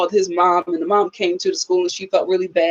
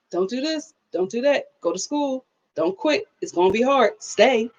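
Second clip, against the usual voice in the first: hushed, slightly raised advice from a grandmother; imitated grandmother; 3 semitones higher than usual. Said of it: "your grandmother's instilling stuff".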